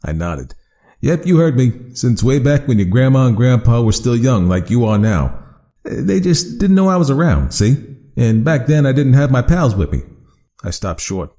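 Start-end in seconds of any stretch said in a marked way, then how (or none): 1.0-10.0 louder, higher chatty monster; a cheerful monster explaining itself; friendly creature voice. Acted. Creature voice held in story.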